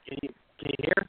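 garbled bad phone line; scrambled voice. Real, not acted. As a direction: voice breaking up over a bad connection. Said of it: "you're breaking up".

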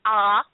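a mock open-mouthed "Ah" for the mirror. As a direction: say ah like at the doctor. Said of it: "opened my mouth and went".

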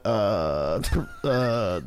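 low, broken-up stammer; faked lost service. Man dodging a date rejection, faking a bad connection. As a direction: imitate a call cutting out in fragments. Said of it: "I acted like I'd lost service".

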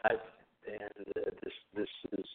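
choppy, breaking-up phone line. Real, not acted. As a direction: voice cutting out on a bad connection. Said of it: "you're breaking up a bit".

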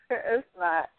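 amused denial through a laugh. Real, not acted. The speaker answers if it's offensive, laughing. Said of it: "Maybe I shouldn't be laughing".

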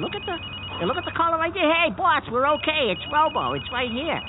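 bursting with relief; excited. Acted. Robo calling, relief.

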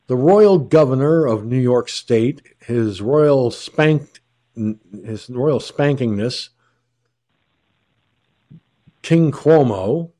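slow, grand mock reverence; mocking royal title. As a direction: drawl the title like a sneer.

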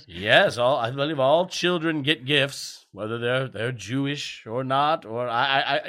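stammering Father Christmas answer, put on; lightly acted, halting reassurance to a child; fake Father Christmas. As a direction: imitate a put-upon Santa fumbling an answer. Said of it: "in your bad fake British accent".

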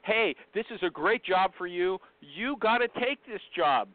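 mock recruiter pressing a candidate to accept; pushy recruiter pitch. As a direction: lean on the candidate like a pushy salesman. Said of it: "I gave Kathy a clear example".

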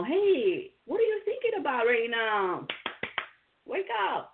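bright, high call to snap someone out of it; friendly wake-up call. Retold or imitated. Host acting out nudging a friend, bright high call.

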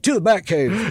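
dramatic Batman catchphrase. Retold or imitated. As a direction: call it out like Batman. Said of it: "you push a button and it's like".

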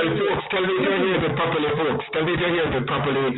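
distorted mic, breaking up; fuzzy, crackly line; fuzz distortion. Real, not acted. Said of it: "you're breaking up, Clive, unfortunately, a bit, or distorted".

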